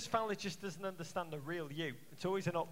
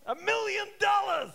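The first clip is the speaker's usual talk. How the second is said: much higher, louder mock American showman; American accent; 12 semitones higher, 7 dB louder than usual. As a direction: belt it like a game-show host. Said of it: "me working on my American accent".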